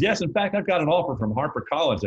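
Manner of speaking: a hint of the manager's Southern accent; North Carolina accent. Manager pitching the book deal, light North Carolina accent. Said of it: "I can't do the accent that long".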